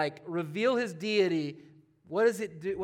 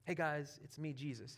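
casual mock greeting; 3 semitones lower, 10 dB quieter than usual. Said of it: "He didn't actually say that".

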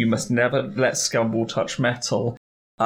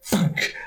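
thunk sound; 4 semitones higher than usual. Retold or imitated. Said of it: "it goes".

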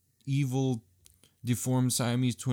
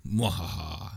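lower, deliberate mwahaha; evil laugh; 4 semitones lower, 3 dB quieter, slower than usual. Acted. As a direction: redo it as a proper villain laugh. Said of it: "Let me redo that".

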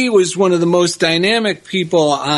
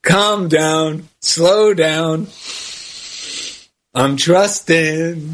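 low, slow Southern gentleman drawl; old southern gentleman; 3 semitones lower, much slower than usual. Retold or imitated. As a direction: ease it out like an old Southern gent. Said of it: "He really talks like a Southern gentleman".

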